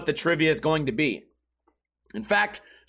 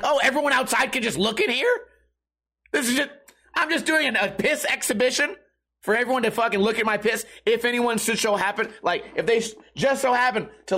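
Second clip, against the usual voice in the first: mock outrage; 4 semitones higher than usual. Indignant inner rant in bathroom.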